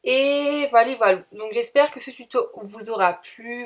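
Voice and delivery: ordinary talk, nothing marked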